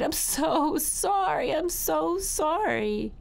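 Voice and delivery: put-on high, drawn-out childlike wail; slow, high, tearful begging; crying plea. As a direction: wail the apology like a spanked child. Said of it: "I cried".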